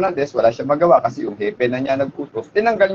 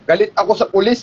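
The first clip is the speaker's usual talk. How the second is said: mild mock shout, higher pitch; retold shout; 4 semitones higher than usual. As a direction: imitate a yell without really yelling. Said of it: "Sumigaw daw yung, ano, tao". (kunwaring pasigaw, medyo mataas ang boses)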